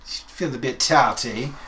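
slow, badly faked Manchester accent; drawn-out stab at a Manchester accent; attempted Manchester accent. Host teasing about the tart, off-target Manchester accent. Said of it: "I know that's not Manchester".

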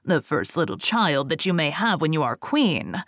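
a touch of a scheming goblin; sly little man. Acted. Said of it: "said the little man".

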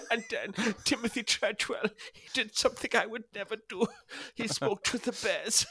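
high, hammed-up German accent. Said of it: "done the German accent".

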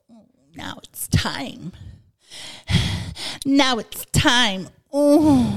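slow breathy come-on whisper; mock seductive whisper. Retold seductive quote, whisper.

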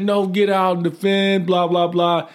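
high, firm counter-order; overruling order. Retold or imitated. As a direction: shut the argument down. Arguing back during ambush.

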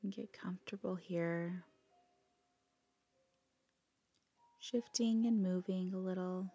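calm, unhurried yoga nidra guidance with long pauses; guided meditation. Acted. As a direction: let each phrase settle before gently giving the next.

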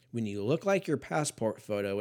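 ordinary delivery

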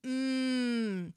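hammed-up commercial announcer, laughing through it; ad read. Cohost reads the popcorn bag as a mock commercial.

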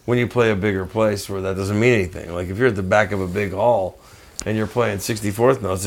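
normal talking voice

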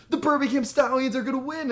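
high-pitched frenzied fan cry, retold; going crazy. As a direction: recreate elated cheering without full volume. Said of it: "fucking get crazy and everything".

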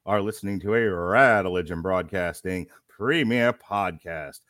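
booming circus ringmaster announcement; loud, grand showman introduction. Acted.

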